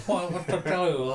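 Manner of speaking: put-on weak Chinese accent. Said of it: "I can't even do the Chinese accent".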